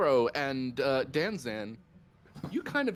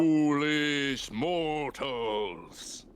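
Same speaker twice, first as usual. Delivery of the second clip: slow, booming dark lord voice; much slower than usual. Acted. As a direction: intone it slowly like an ancient evil. GM voices creature from trees.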